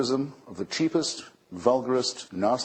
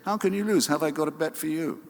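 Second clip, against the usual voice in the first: high, pushy racetrack tout; racetrack huckster; 5 semitones higher than usual. Retold or imitated. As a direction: pitch it like a bookie's tout. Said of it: "of the huckster on the racetrack saying".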